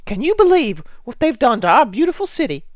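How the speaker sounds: high, put-on old woman; old lady voice. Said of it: "She says".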